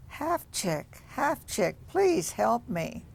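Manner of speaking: high, slow plea for help; faint distant plea from the fire; pleading voice. Acted. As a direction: call out weakly for help.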